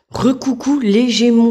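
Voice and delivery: high, slow, bright hello bursting back in; excited re-greeting. Real, not acted. Re-greeting Gemini viewers after the candle mishap, excited and loud. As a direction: greet them again all worked up.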